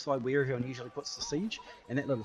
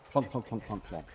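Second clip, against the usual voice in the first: mock arrow plonks. Shown as a demonstration. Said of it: "And watch this".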